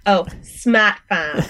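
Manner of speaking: slow, drawn-out Boston accent. Shown as a demonstration. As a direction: say the farm name like a Bostonian. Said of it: "Said it in a Boston accent".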